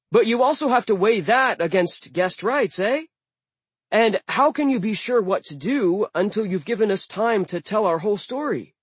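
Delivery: high, lively dwarf voice; a reasonable dwarf pleading. Acted. Dwarf Blitz speaking.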